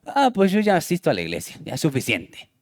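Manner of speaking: quick, lightly mocked complacency, dropping away softly; complacent churchgoer. Preacher mimicking a member content just attending church, mildly mocked complacency. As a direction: toss it off like someone easily satisfied. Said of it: "Conformismo espiritual".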